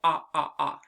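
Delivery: repeated "ah"; short o sound. Shown as a demonstration. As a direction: clear open "ah". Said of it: "that beautiful".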